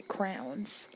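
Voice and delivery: "crowns" for crayons, one syllable rhyming with towns; childhood crayons. Retold or imitated. Recalling childhood, she says crayons as crowns. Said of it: "I would say crowns".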